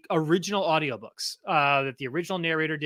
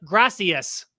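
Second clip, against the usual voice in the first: imitating a clumsy American accent in Spanish on "Gracias"; honky Spanish accent. Imitating his wife trying Spanish, honky American accent. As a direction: say "Gracias" as a stiff Anglo beginner in Spanish. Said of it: "like my wife, like, trying to speak Spanish".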